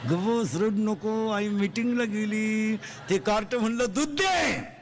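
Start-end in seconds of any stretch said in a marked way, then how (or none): 0.1-2.8 put-on slow, drawn-out soothing to a baby; slow down like rocking a crying child; slow lulling hush. Father slowly hushing his crying baby while mother's away. 3.9-4.7 put-on higher little kid's plea; child's voice. Hungry child asking father for milk, higher kid's voice.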